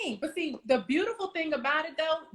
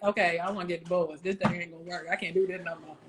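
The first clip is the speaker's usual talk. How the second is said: mock fed-up wife; 7 semitones lower, 3 dB quieter than usual. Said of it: "The other one just there and just like".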